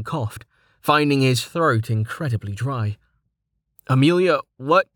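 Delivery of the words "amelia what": a touch higher, bewildered; confused surprise. A narrator's reading. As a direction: ask in dazed confusion. Dazed confused question.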